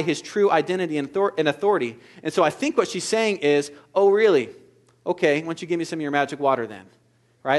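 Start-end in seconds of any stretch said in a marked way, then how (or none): 3.9-6.9 mock-incredulous oh really, then quick; sarcastic. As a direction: tease him as if he's crazy. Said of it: "a little bit of sarcasm".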